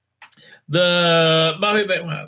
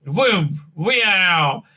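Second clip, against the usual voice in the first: mock beam noise. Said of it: "imitated beam noise".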